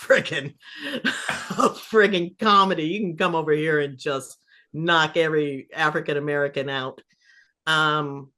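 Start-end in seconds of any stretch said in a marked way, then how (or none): 0.0-7.0 laughing praise. Retold or imitated. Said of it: "I'm just like".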